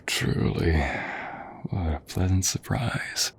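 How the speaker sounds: hushed, tender whisper during a hug; soft whisper. Acted. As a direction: breathe it close into the friend's ear. Hugging an old friend.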